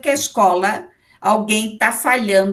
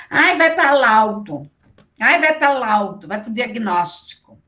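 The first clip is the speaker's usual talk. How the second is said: mock dismissive; 2 semitones higher than usual. Lecturer mimicking school staff referring small problems, mock dismissive. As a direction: imitate someone brushing a child off.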